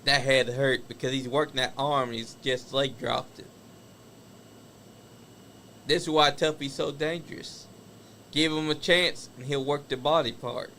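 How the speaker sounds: live play-by-play wrestling call; wrestling commentator. Acted. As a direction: call the match as it happens. Calls the wrestling match live.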